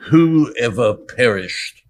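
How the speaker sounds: put-on slow, grave English judge accent. Preacher voicing Eliphaz as an English judge, slow and grave. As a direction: draw it out like a stern old English judge. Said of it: "He would obviously be very much at English judge".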